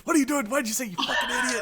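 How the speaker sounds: mock the YouTuber scolding himself, cracking up; laughing mock scold. Imitating Vaping Postman cursing at himself in outtakes, laughing. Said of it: "like, saying".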